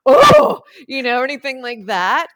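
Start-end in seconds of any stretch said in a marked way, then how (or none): 0.1-0.6 a sudden, much higher, louder gasped oh; mock a listener's shock. Someone in the room gasping at her confession, mock shocked oh.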